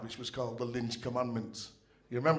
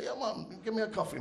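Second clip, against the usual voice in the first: Jamaican dad; 8 semitones higher, 4 dB quieter than usual. Retold or imitated.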